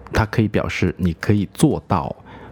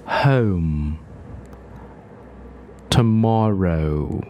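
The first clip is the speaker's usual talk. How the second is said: slow, full vowels; much slower than usual. Shown as a demonstration. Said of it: "我们要念得饱满一点".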